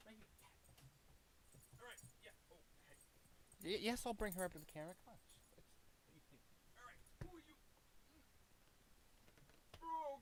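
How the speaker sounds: high sing-song pet voice, fast at first. Real, not acted. Baby talk to her dog.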